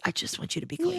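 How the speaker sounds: soft, high-pitched imitation of caring; tender retold plea. Voicing a caring character's wish.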